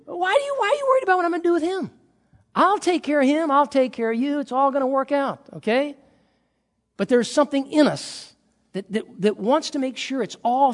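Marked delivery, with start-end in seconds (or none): 0.0-6.0 high, light, kindly rebuke; acted reassurance, pitched up. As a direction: gently brush off a worrier, voice raised in pitch. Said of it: "basically, very kindly, he says".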